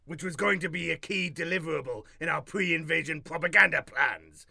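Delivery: grand alien overlord; menacing conqueror's proclamation; dragon voice. Acted.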